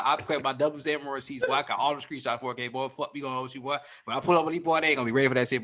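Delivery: rapid run-on Atlanta street talk; fast ATL slang. Shown as a demonstration. Showing the crew how ATL folks really talk, rapid Atlanta slang. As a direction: rattle it off like real ATL speak. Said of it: "if I speak right now".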